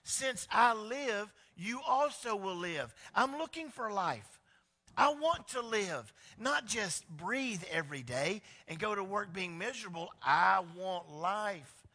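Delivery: loud, drawn-out longing for life; Jesus. Retold or imitated. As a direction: lean into every I want. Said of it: "But he's like".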